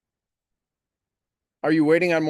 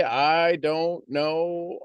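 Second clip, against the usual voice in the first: drawn-out I don't know; much slower than usual. Retold or imitated. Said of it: "maybe possibly you say".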